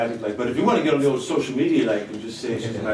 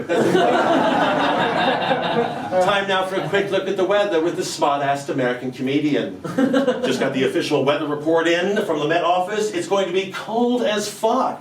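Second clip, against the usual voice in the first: higher, brash stand-up weather report; smart-assed American comedian; 7 semitones higher than usual. Acted. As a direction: sell every joke like a cocky comic. Comedian doing a weather segment.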